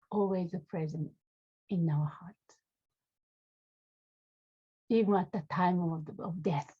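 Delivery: unhurried meditation guidance with long pauses; guided meditation. Real, not acted. Teacher leading students to feel into the body, guided meditation. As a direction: guide them gently, phrase by phrase, leaving space.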